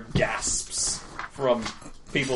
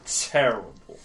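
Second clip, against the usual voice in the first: indignant complaint; 2 semitones higher, 4 dB louder than usual. Acted. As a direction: complain about the sandwich. Drunk NPC complains.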